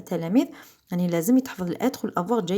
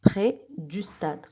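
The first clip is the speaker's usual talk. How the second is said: près du stade, slower and much softer; 2 semitones lower, 6 dB quieter, much slower than usual. Shown as a demonstration. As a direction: repeat it gently and slowly. (تكرار بطيء وهادئ)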